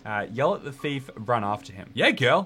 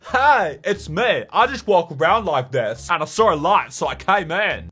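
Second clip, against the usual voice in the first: mock clueless person; 2 semitones higher, 4 dB louder than usual.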